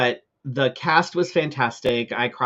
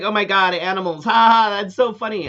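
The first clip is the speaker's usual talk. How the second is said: high, loud imitation of a tipsy heckler; mock cackling; 6 semitones higher, 4 dB louder than usual. Drunk woman behind me laughs at the serious scene, mock cackling. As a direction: mimic her laughing at the wrong moment. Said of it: "she's back there cackling".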